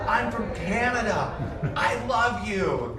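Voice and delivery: imitating a Canadian fan. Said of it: "he goes".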